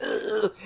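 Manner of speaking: high-pitched, quiet "ugh"; mock groan of distaste; small cringing groan; disgusted groan. Retold disgust at dub wording.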